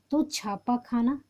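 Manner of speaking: slow it down so the class can write it; slow repeat for dictation. Shown as a demonstration. Teacher repeating the answer slowly for students to copy.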